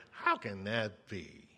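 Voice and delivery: low, slow doubtful question; doubting inflection. Shown as a demonstration. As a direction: say it like you don't believe a word. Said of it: "we kind of put our own inflection in there".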